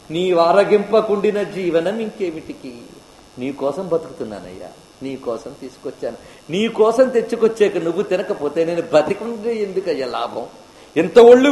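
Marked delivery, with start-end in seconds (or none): 0.1-10.4 tearful lament. Acted. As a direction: sink into hurt as he refuses the food. Devotee grieving his refused offering.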